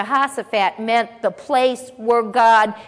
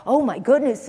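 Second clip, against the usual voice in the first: mock panic. Preacher mimics disciples fearing they'll miss the rapture, mock panic. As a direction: play a worried believer, half in earnest. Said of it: "they didn't go".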